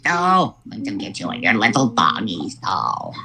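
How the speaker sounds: Wicked Witch. Acted. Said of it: "do your best impression of the Wicked Witch of the West".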